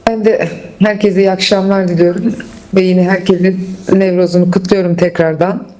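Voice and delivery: echoing room sound. Real, not acted. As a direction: voice bouncing back in a hall. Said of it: "sesim yankılanıyor ama".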